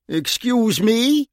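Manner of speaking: slow, drawn-out, dangerous "excuse me"; menacing challenge. A narrator's reading. Bunny eye to eye with the mouthy bouncer, slow and menacing. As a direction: let the threat hang on every syllable.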